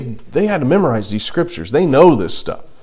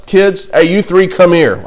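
lightly imitated mom, pitched higher; stern mom voice; 4 semitones higher than usual. Mom calls her three kids over, lightly imitated stern voice. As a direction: do a hint of mom summoning the kids. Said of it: "With that voice".

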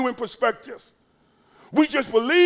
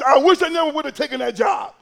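crying regret; 2 semitones higher, faster than usual. Pretend. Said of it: "be somewhere crying".

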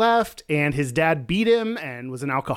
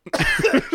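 sudden high-pitched laugh; high burst of laughter. Real, not acted. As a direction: squeal of laughter.

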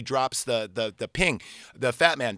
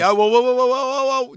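stopping excitedly; 10 semitones higher, 7 dB louder than usual. Real, not acted. Stopping friend's retelling.

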